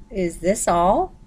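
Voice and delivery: slow, let-down question; dismayed question. Acted. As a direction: drag it out in disbelief. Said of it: "Ken asked".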